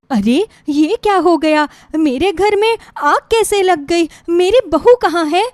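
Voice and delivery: desperate search for her bride; alarmed panic. Acted. Mother-in-law sees house on fire. (घबराहट में चिल्लाती हुई)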